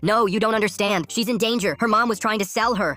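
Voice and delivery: high, urgent pleading mom; screamed protest. A narrator's reading. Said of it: "My mom screamed".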